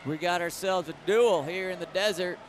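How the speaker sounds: a light mock cowboy accent. Commentator jokingly closing the half in a cowboy accent. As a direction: drop in a touch of Western cowboy twang, half-joking. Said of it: "my best cowboy accent that I can muster".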